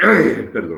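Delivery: coughing, pushing through a sore throat.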